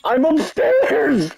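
slow, high called-out reply; yelling across the room. Real, not acted. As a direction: drag it out as a call. Calling out position.

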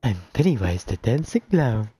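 Pennywise voice. Pretend. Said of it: "Sound like a pedophile".

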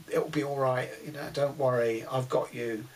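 put-on soft, soothing coo to a sick girl; a mild imitated coo. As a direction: gently comfort someone being sick. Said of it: "if you're cooing".

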